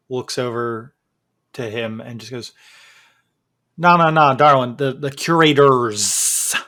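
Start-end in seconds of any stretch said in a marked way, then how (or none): 3.8-6.5 a lightly Southern, fussy woman; Southern accent. Acted. Woman correcting the players, lightly Southern. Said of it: "doing the S list with a Southern accent".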